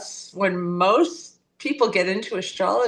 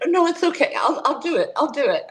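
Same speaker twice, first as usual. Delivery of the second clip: reluctant mother giving in; 7 semitones higher, faster than usual. Retold or imitated. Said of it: "And so my mother said".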